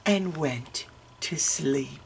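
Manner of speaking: soft, very slow narration; lulling. A narrator's reading. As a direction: let the words drift off to sleep. Narrator lulls as baby sleeps.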